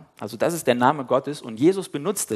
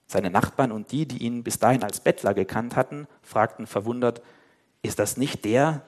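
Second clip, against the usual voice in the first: Bible passage read aloud with voiced figures; lively scripture reading; story reading. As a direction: read the story to the congregation, voicing each speaker.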